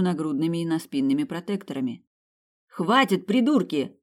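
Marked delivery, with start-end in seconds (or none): 2.7-4.0 louder, higher angry yell; angry shout. A narrator's reading. Sabina yelling at the boys shooting her, loud and angry. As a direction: snap at them to stop firing. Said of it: "крикнула Сабина".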